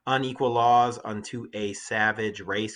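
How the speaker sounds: slow, drawn-out vowels in "Unequal laws unto a savage race"; slowed reading that brings out the A vowels of savage and race; showing assonance. Shown as a demonstration. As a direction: stretch the A sounds in "a savage race". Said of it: "Can you hear it?".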